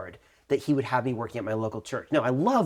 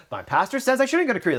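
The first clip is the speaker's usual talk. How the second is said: exasperated; 11 semitones higher, 3 dB louder, faster than usual. Retold or imitated. Exasperated retelling to friends.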